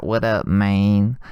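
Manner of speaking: drawn-out, slow dude greeting; lightly put-on slacker voice; imitated Lil Mikey. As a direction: stretch it out like his impression of a buddy. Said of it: "he said he'd talk like this".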